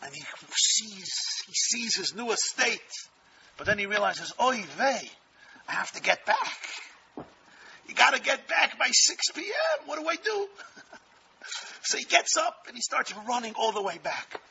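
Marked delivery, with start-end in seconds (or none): 4.4-10.5 panicked. Retold or imitated. Panicked man in story.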